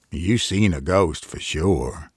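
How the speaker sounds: slow, grave and certain; understated farmer's solemn verdict. Acted. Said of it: "he rejoined solemnly".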